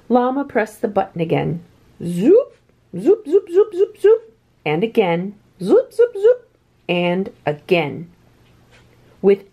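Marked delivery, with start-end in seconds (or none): 2.0-4.3 zoops climbing much higher and louder each time; rising zoops. A narrator's reading. Llama pressing the button again, climbing high zoops. 5.6-6.5 zoops climbing much higher and louder each time; rising zoops. A narrator's reading. Llama pressing the button again, climbing high zoops.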